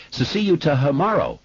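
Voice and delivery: put-on boy stammering on first sounds; stuttering. A narrator's reading. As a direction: catch on each first consonant. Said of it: "Did you notice that he stutters?".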